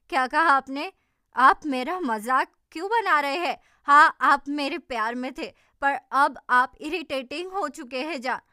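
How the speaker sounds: loud, heated accusing shout; shouting at Jaan on the beach; angry shouting. Acted. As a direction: yell at him in a public quarrel. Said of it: "चिल्ला क्यों रही हो?".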